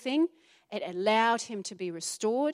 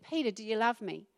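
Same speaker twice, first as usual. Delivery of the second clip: Jesus gently restoring Peter, quiet and tender; gentle question; 5 dB quieter than usual. Acted. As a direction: ask softly, as if restoring a friend. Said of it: "he restored him".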